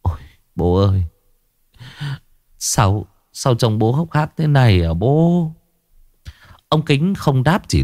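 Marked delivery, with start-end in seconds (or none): 0.0-5.5 tearful son. Acted. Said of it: "Anh Dương mếu máo".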